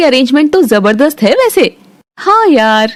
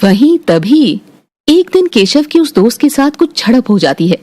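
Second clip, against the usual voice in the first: lower, even storytelling voice; story narration; 4 semitones lower than usual. A narrator's reading. Narrator telling the family story, calm and even. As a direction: narrate the scene calmly, a touch lower.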